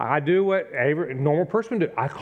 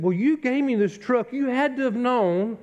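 retold complaint; 9 semitones higher than usual. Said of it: "And I said".

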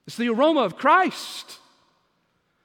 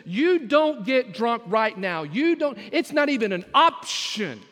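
urgent loud command; 4 dB louder than usual. Acted. Preacher shouting Paul's command.

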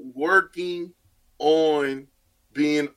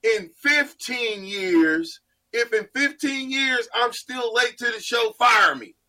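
emphatic slow shout; 5 semitones higher, slower than usual. Acted. Mock ultimatum about being late.

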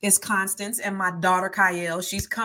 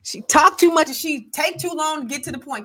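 higher, louder mock scolding mother; mama's complaint; 8 semitones higher, 5 dB louder than usual. Daughter imitating her mother calling her long-winded, higher mock scold. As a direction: imitate a mother fussing about her chatty girl. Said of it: "my mama used to always say".

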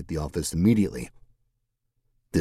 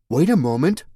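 higher, louder indignant protest; 9 semitones higher, 6 dB louder than usual. Acted. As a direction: cut in, objecting loudly. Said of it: "Mercedes protested".

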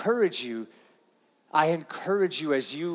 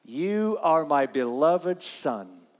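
solemn reading; 3 semitones lower, much slower than usual. Shown as a demonstration. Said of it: "what did it say?".

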